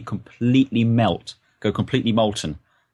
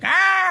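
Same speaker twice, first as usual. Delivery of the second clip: high mock scream; melting face scream; 6 dB louder than usual.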